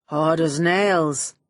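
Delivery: dry agreement. Acted. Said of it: "I agreed".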